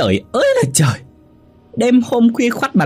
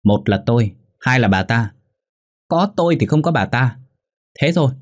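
higher-pitched, insistent angry ultimatum; shrieking wife; 5 semitones higher than usual. A narrator's reading. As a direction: lay down the law in a heated, raised pitch. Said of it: "Hòa rít lên".

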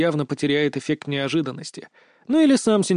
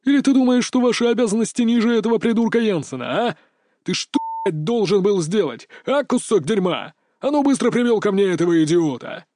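angry outburst; 5 semitones higher than usual. A narrator's reading. Boss berates servant.

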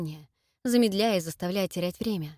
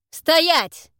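loud steely order, much higher; thunderous command; 8 semitones higher, 10 dB louder than usual. Acted. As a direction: halt him with iron authority. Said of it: "громогласно ... стальными интонациями".

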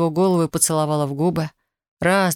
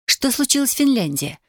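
much higher, pressing question; insistent repeat; 8 semitones higher than usual. A narrator's reading. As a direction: demand it again, pitched up. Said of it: "повторила Даша". (настойчиво, высоко переспрашивает)

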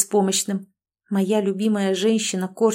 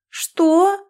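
sharp, much higher, louder outraged question; indignant what; 9 semitones higher, 5 dB louder than usual. A narrator's reading. Wife outraged at her husband's teasing, high and loud. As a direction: snap back in mock outrage.

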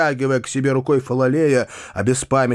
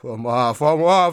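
ordinary delivery

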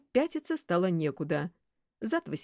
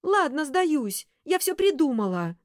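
slow, breathless, louder gasps; 9 semitones higher, 6 dB louder than usual. Acted. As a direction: gasp it out pinned down. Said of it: "сообщила она, задыхаясь".

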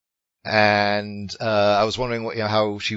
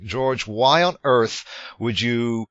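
mock plead with the director in disbelief; exasperated rhetorical question; 3 semitones higher than usual.

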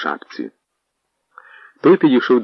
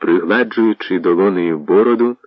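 ordinary delivery

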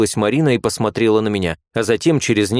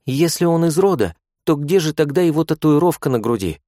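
put-on higher girlish voice, a touch of smugness; smug young nurse; 7 semitones higher than usual. A narrator's reading. Nurse smugly doubting her friend, a little superior. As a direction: poke a hole in her argument. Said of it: "самодовольно хмыкнула третья".

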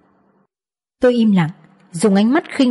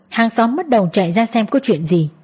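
ordinary delivery, nothing marked

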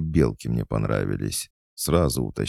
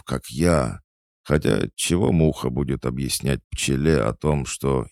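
lightly voiced drunk, wallowing in woe; maudlin drunkard, self-pitying; 3 semitones higher than usual. Drunk performer pouring out his aching soul, maudlin. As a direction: lament your lot to a gentleman.

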